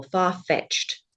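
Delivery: Far-fetched with the weight on FETCHED; stress on second syllable. Shown as a demonstration. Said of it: "It would go on the second syllable".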